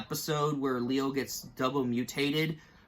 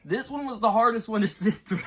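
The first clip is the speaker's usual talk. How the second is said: rueful laugh; 5 semitones higher, 3 dB louder than usual. Real, not acted. Laughing at his own tearfulness.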